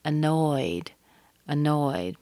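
weak schwa, then a long NOYED in "annoyed"; second-syllable stress. Shown as a demonstration. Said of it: "You hear the stress on the second syllable".

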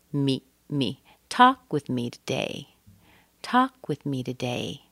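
"me" brief and unstressed; shortened ME. Shown as a demonstration. Teacher says it's a pronoun, short unstressed ME. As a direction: skim over "me" between "talk" and "today". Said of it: "So just shorten that".

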